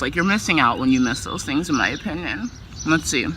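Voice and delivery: talking while chewing food; mouth full. Real, not acted. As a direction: speak around a mouthful of food. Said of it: "I'm realizing as I'm chewing".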